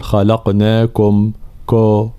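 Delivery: خلقناكم with the ضمة blurred into كو; mock wrong reading of خلقناكم; wrong rounding. Shown as a demonstration. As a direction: drag out كو wrongly with no clean damma. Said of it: "أي لا نقول".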